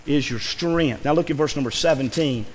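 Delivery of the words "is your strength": scripture reading. Shown as a demonstration. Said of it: "The Bible says".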